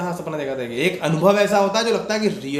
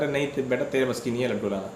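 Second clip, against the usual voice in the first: soft, fast, fond teasing; softer and quicker, an affectionate put-down to a child; lovingly; 4 semitones lower, 6 dB quieter, faster than usual. Retold or imitated. Little monkey fondly telling the devotee he can't fetch it, soft and quick. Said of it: "प्यार से बोलते हैं".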